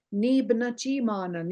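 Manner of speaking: "Ni bna chi manan" joined as one unit; said together. Shown as a demonstration. Teacher showing "Ni bna chi manan" is tied together, said unbroken. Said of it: "You kinda say that together".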